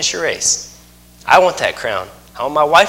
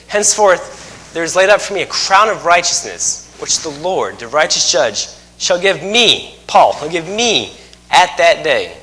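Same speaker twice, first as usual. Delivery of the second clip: scripture reading. Acted.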